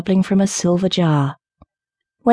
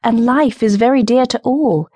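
higher, wistful protest; high-voiced bird reasoning earnestly; nightingale's cry; 6 semitones higher than usual. A narrator's reading. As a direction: plead for life, pitch lifted. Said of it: "cried the nightingale".

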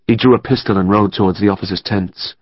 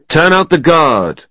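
loud, higher slow command; officer shouting for the guard; 7 semitones higher, 3 dB louder, slower than usual. A narrator's reading. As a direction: bellow out the order. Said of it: "Crosby shouted".

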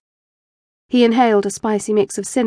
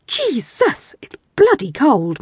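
shuddering; 4 semitones higher, slower than usual. Acted. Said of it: "Mike shuddered".

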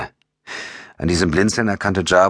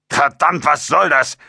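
high-pitched angry outburst; mild yell; 11 semitones higher, 3 dB louder than usual. A narrator's reading. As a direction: burst out in exasperation, pitched way up. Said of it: "brüllte Jabo".

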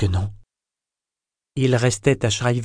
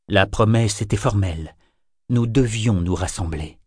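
cavernous voice. Acted. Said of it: "d'une voix caverneuse".

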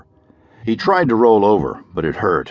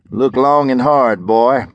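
louder, higher pointed command; stern sheriff; 5 semitones higher, 4 dB louder, slower than usual. Acted. Sheriff forcing Parker to look at the wreck, raised voice. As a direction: make him face it.

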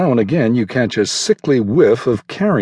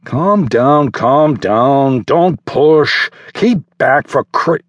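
loud, raised calls to settle the crowd; caretaker calling out; 5 semitones higher, 4 dB louder, slower than usual. A narrator's reading. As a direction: shout over the pushing kids.

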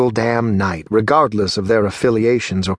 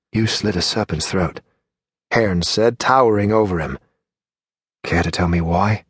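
cold interrogation; 4 semitones lower than usual. A narrator's reading. Hearn interrogates the dying murderer.

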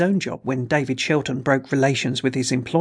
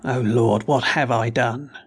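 groaning; 3 semitones lower, slower than usual. Acted. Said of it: "groaned Shelton".

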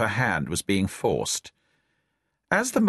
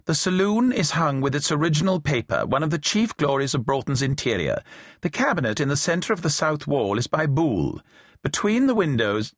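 higher, prim schoolmistress reading aloud; geography mistress voice; 5 semitones higher than usual. Acted. Isabel reads the guidebook aloud, geography mistress voice. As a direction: read the guidebook like a teacher lecturing pupils. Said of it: "began to read in a geography mistress voice".

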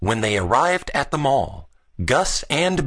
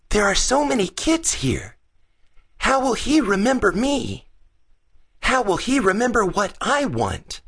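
put-on high-pitched worried child; fretful boy Gus; 10 semitones higher than usual. Gus fretting among so many kids, anxious high voice. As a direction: voice an anxious boy, much higher. Gus frets about Santa.

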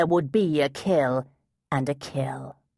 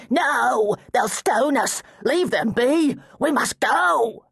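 higher, louder panicked pleading; frantic pleading; 8 semitones higher, 4 dB louder, slower than usual. Acted. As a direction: beg him to leave before it's too late. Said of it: "frantically waving his arms".

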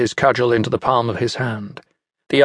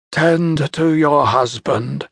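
Centaur ordering; 3 semitones higher, much slower than usual. Acted. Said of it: "Centaur said to the woman".

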